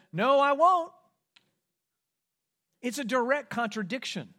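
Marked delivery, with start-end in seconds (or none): 0.1-0.9 much louder, higher flat denial; defiant refusal. Acted. Peter contradicting Jesus, loud defiant no. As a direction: snap back in bold contradiction. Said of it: "Peter says".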